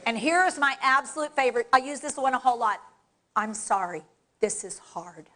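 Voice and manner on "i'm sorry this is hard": low, soft, heartfelt admission; a little sorry. Shown as a demonstration. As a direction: own up gently, voice sinking. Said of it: "you need to sound and look a little sorry".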